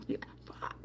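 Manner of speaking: breathy whispered swear; whispered curse. Real, not acted. Swearing under her breath to viewers, whispered. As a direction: drop to a whisper. Aside after clip.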